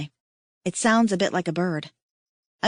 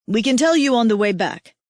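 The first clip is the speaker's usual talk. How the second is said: interrupting; 3 semitones higher, 5 dB louder than usual. Acted. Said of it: "Ihako interrupts".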